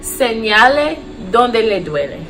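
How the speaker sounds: slow, careful Spanish instruction; slow language demo. Shown as a demonstration. Nurse teaching how to have patients point to pain, slow demo. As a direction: model the phrase slowly for learners. Teacher models phrase for learners.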